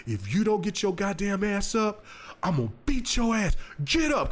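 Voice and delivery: high stern threat; scolding mom. Retold or imitated. Mother to son throwing a fit, high stern threat. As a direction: threaten the kid on the floor.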